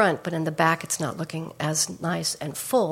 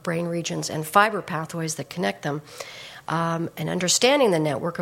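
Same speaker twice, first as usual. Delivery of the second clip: hoarse, worn-out voice; raspy voice. Real, not acted. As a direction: talk through a raspy throat. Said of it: "I apologize for the raspy voice".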